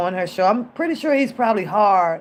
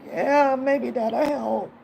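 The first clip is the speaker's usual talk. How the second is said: feeble fake sick reply; 4 semitones higher, much slower than usual. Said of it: "I'll be like".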